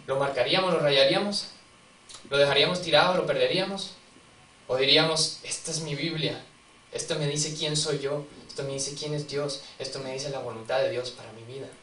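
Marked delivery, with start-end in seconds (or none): 5.4-11.7 soft, reverent avowal; hushed confession. Acted. Preacher voicing a believer's quiet avowal to the congregation. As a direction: say it as a quiet vow.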